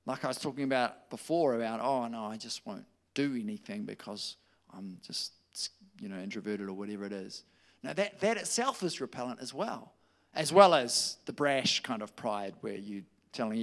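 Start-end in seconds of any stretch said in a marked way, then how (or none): 1.8-7.4 whispered, mock-timid excuse; hushed imitation of an introvert. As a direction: whisper it like a shy excuse-maker.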